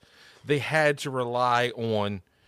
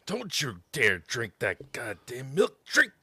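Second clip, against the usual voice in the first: mock superhero. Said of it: "mock superhero PSA".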